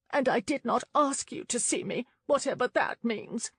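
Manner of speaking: a touch of a sharp retort; young woman voice. A narrator's reading.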